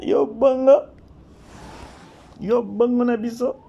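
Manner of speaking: loud, thrilled cheer; excited shout. Real, not acted.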